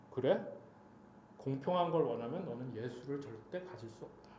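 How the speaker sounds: low, soft, solemn pronouncement; God's voice. Retold or imitated. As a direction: quote God quietly and low, as a verdict. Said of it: "하나님이 또 음성 주신 거야". (낮고 조용한 하나님의 음성)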